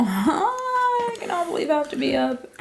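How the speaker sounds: giddy laugh through words. Real, not acted. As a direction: laugh while you complain. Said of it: "I'm getting delusional".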